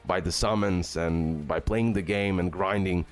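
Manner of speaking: ordinary talk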